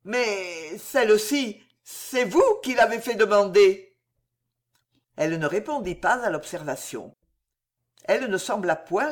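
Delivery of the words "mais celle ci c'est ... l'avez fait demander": stammering. Acted.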